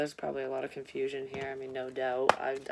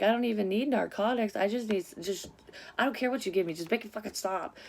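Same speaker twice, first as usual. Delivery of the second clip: higher, pleading to stop the pain; desperate plea; 5 semitones higher than usual. Retold or imitated. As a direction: beg the nurses, voice pitched up. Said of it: "And it's like".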